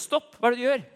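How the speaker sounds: loud, high shout of alarm. Retold or imitated. Woman on the steps shouts at the praying girls, loud and high. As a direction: bellow stop at the stranger. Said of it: "så brøler det ut".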